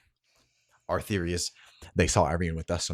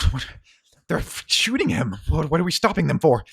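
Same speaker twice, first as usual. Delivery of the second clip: higher, louder, urgent question; alarmed protest; 8 semitones higher, 6 dB louder than usual. Acted. Othello grabbing Cersei, alarmed they are shooting him. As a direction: demand to know why they stop. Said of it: "Othello grabs her and goes".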